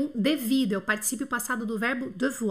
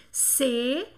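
célèbre split into slow, separate syllables; teacher sounding out célèbre piece by piece. Shown as a demonstration. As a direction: dictate "célèbre" in three parts, pausing between each. Teacher breaks word into syllables.

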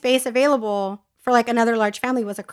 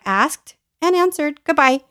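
firm dismissal; 4 semitones higher than usual. Retold or imitated. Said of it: "I'm like".

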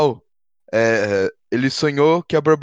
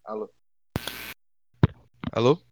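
call dropping out; 5 semitones lower, 6 dB quieter, faster than usual. Real, not acted. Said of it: "E aí?".

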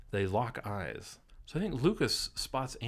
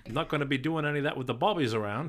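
mock London accent; 4 semitones higher, 4 dB louder, faster than usual. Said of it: "Bobbies, that's like a London thing".

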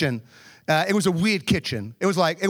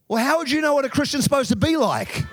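retold comeback; 7 semitones higher than usual. Retold argument with coworker.

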